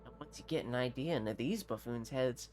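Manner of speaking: a lightly voiced haughty captain; hint of a pompous nobleman. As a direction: play a self-important mercenary captain, lightly. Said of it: "what he sounds like".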